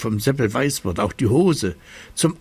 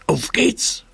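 hoch und begeistert rufen; aufgeregter Ruf; 9 semitones higher than usual. Acted. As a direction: voller Vorfreude losrufen. Kasperl ruft Seppel zum Eislaufen. (Kasperl ruft Seppel hoch und begeistert zum Aufbruch)

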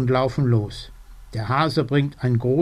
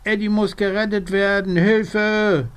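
frantic cry; 7 semitones higher than usual. Acted. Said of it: "macht so ein Mordsgeschrei".

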